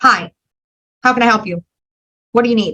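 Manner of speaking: rapid-fire, brisk delivery in short sentences. Demonstrating how a dominant personality talks: loud, fast, very short sentences. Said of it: "loud and they speak fast and they speak very short".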